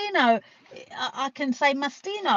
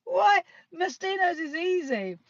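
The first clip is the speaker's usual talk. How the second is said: laughing mock complaint; 8 semitones higher than usual. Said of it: "I'm like".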